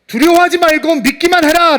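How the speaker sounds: loud, high, urgent exhortation; forceful preacher quoting a command; emphatic command. Acted. Quoting Jesus' command to Jairus.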